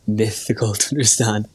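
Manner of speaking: "mythical" for difficult, th in the middle; Irish-accented "mythical"; accented pronunciation. Real, not acted. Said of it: "I like mythical to understand".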